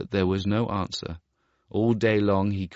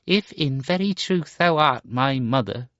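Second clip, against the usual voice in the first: put-on higher, cold bitter boy; hard and bitter; 7 semitones higher, 4 dB louder than usual. Star Child answers his mother, hard and bitter. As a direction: spit out the words coldly. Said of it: "his voice was hard and bitter".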